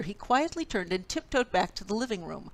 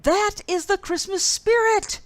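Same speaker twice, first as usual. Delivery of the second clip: bellow; 12 semitones higher, 10 dB louder than usual. A narrator's reading. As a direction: boom it across the room. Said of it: "bellowed the Bear".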